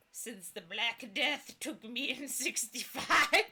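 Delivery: put-on creaky old ghost. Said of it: "The ghost voice creaks like ancient wood".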